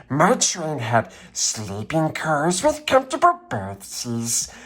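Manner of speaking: proud passenger engine refusing the toys; snooty engine. Acted. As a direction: sniff down at the little train. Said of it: "the shiny new engine snorted".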